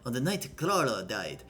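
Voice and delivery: put-on amateur Russian accent, deliberate and emphatic; hammed-up Russian accent. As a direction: voice a stern character with a rough Russian accent. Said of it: "I can't do a Russian accent".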